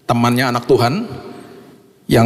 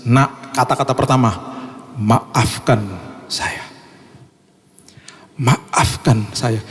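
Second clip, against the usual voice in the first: tearful apology; much slower than usual. Retold or imitated. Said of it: "mamanya bilang sambil menangis".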